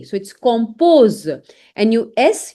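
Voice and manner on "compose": "compose" said slowly kom-POZ; hard K, long O, Z ending in "compose". Shown as a demonstration. Teacher sums up the rule, French kom-poz. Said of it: "so you read it like K".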